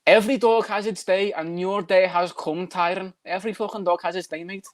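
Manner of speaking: put-on Liverpool lilt; Darren Till. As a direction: play a Scouse fighter talking trash. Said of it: "Darren Till impression".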